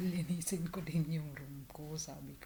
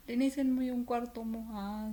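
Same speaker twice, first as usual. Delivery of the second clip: higher, louder mock boss voice; quoting the boss; 6 semitones higher, 7 dB louder than usual. Retelling the boss telling her to clean her room. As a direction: lightly voice the boss giving an order.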